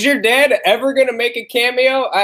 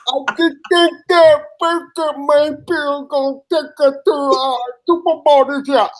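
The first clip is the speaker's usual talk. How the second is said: higher, slow dopey voice; higher slow goofy fan voice; dim-witted impression; 5 semitones higher than usual. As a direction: play it slow-witted and proud. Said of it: "I do a really good retard impression".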